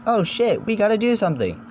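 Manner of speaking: panicked. Acted. Toa attacked by Rahi.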